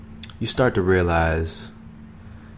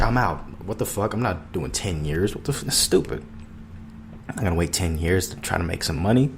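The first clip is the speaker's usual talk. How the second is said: scoffing skeptic. Retold or imitated. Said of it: "Most people would probably be fucking terrified. They're like".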